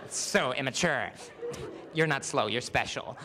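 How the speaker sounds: slow, condescending girl voice, lightly put on; a friend mocking the immature girl, slow and snooty; mock snooty schoolgirl. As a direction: talk down to her like a smug friend. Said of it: "your friend's like".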